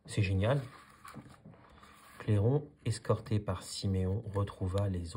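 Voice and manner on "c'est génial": exclaiming. Acted.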